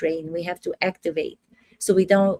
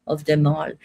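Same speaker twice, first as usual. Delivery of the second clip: grand, lower Russian accent; 3 semitones lower than usual. Shown as a demonstration. Actress boasting of her greatness, theatrical Russian accent. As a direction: put on an in-between Russian accent. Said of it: "Doesn't even sound like Russian".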